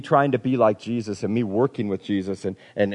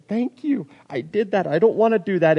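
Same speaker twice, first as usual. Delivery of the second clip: high-pitched, earnest thanks to God; grateful prayer; 7 semitones higher than usual. Acted. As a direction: lift the voice up in relieved thanks. Acted grateful prayer after sinning.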